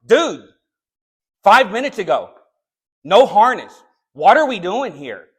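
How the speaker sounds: mock sharp rebuke to a worker. Preacher retelling how he scolded a worker, sharply. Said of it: "the second time I was like".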